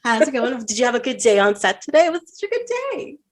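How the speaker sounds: chatty phone-call catch-up; a hint of teen girl on the phone; lightly voiced teenage girl. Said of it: "like, teenage girls".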